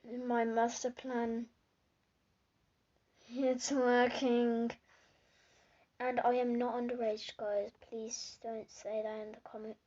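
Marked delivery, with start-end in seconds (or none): 0.0-4.7 slow sly villain voice. Retold or imitated. Mike's evil plan, slow gloating.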